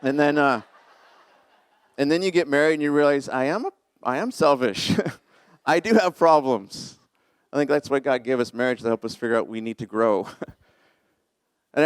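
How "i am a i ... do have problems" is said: laughing through a sheepish admission; laughing confession. Retold or imitated. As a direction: own up with a laugh. Retold realization about himself.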